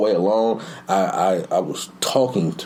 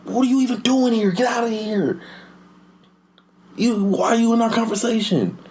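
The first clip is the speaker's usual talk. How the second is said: put-on high-pitched kid voice; indignant child, pitched way up; imitated rude schoolboy; 14 semitones higher than usual. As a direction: mimic a boy shooing someone away. Voices the boy snapping at girl.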